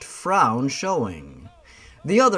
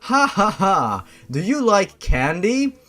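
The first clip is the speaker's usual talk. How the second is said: giggly clown; 5 semitones higher, 3 dB louder than usual. Acted. Clown LJ cackling.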